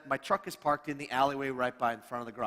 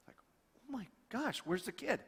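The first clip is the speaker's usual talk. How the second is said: retold panic; 6 semitones higher, 7 dB quieter than usual. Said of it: "There's this moment of panic".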